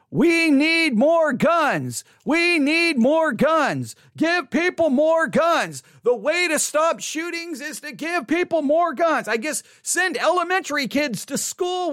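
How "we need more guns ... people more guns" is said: slow, higher, hammed-up chant of a gun fan; mock gun advocate. Mocking the gun crowd to viewers, slow higher chant. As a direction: mimic the pro-gun crowd, dragging it out. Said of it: "You're gonna have those saying".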